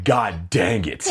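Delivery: slow, stretched-out mock dismay; drawn-out exasperation. Kid behind the farting mom, drawn-out exasperation. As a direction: drag the words out, exasperated. Exasperated reaction to fart in class.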